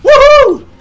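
very high, loud Homer whoop; Homer woohoo. Pretend. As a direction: celebrate like Homer. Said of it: "I know".

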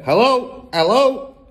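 loud, high parrot squawk; parrot calling. A narrator's reading. Parrot calls down the chimney to Matilda, squawking. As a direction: call out repeatedly like a parrot. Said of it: "the bird called down to her".

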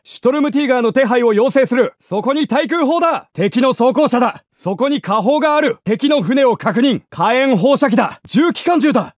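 loud battlefield radio calls; shouted callouts. Acted. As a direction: shout it over the din of battle.

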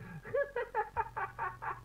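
high, gleeful cackling laugh; maniacal cackle. Acted. Joker laughing about his mother pushing his aunt, cackling. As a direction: cackle at the awful punchline.

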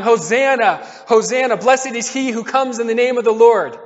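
mild mock acclamation; crowd crying out. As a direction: call it out like a crowd hailing a king. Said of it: "The people crying".

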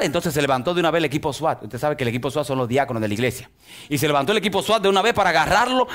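normal talking voice

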